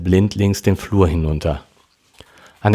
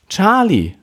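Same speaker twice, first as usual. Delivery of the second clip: weinend; 12 semitones higher than usual. Acted. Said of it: "weinte Melanie".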